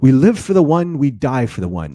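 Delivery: G'Kar's booming opening, with the rest of the line back to normal; imitating G'Kar. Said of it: "only Andreas can deliver it the way that G'Kar delivers it".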